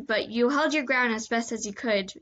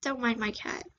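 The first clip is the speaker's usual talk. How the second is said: unvoiced whispered aside; whispering; 5 dB quieter than usual. Real, not acted. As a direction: whisper it off-mic. Aside to listeners about cat.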